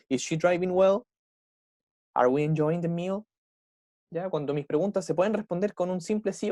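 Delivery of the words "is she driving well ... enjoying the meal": "Is she driving well?" and "Are we enjoying the meal?" each climbing at the end; rising question intonation. Shown as a demonstration. Teacher applying the same tune to more examples, rising intonation. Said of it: "Lo mismo acá".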